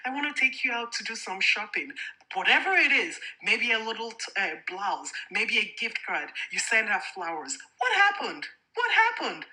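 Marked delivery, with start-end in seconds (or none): 0.1-1.9 higher, lightly eager invite; a hint of a doting husband calling his wife; mildly upbeat husband offering a treat; lightly voiced sweet husband. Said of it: "You're like". 7.8-9.5 much higher, louder disbelieving cry; shocked, repeated question; incredulous. Real, not acted. Indignant challenge to husbands.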